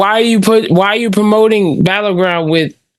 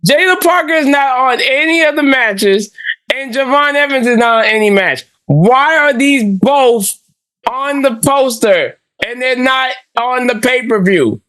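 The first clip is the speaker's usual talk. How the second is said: angry; 5 semitones higher than usual. Real, not acted. Continued poster rant.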